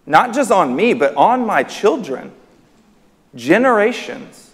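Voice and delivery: high, swooping disbelief; incredulous. Acted. Preacher marvelling at the crowd's audacity, incredulous. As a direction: stretch each phrase in astonishment.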